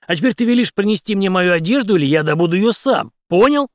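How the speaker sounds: angry threat. A narrator's reading. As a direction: shake him with every word. Henry shaking the doctor. (Генри трясёт врача и громко угрожает)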